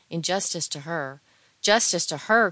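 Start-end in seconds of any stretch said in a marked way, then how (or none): 1.6-2.5 loud, higher echo with a rising end; exclaimed protest, sharply louder; indignant cry. A narrator's reading. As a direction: throw the words back as an outcry. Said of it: "cried Edgar".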